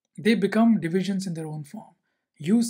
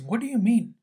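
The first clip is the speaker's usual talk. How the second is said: mildly raised, offended questions; a touch of hurt anger; retold angry comeback; faster than usual. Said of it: "Unsho gets even more angry".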